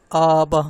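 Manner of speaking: آبا with the opening آ dragged out; first vowel overlong. Shown as a demonstration. Teacher repeats the mistake for students, آ in آبا stretched. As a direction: hold آ too long, keep با short in آبا. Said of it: "آ لمبا ہو رہا ہے نا".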